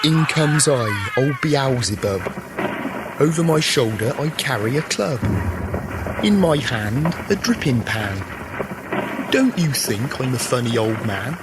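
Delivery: lightly voiced old Beelzebub reciting; mummers play Beelzebub. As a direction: declaim the rhyme as a folk figure.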